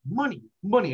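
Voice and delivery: high swooping sing-song cry; imitating a greedy meme cartoon character; Mister Krabs meme. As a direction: sing out each word with a big pitch swoop. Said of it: "You know the Mister Krabs meme".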